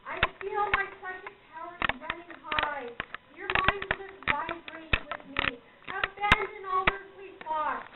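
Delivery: the arresting voice of a showy psychic at the crystal; theatrical medium. Acted. Medium opening the seance for her guests, mildly theatrical and arresting. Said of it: "The voice is arresting".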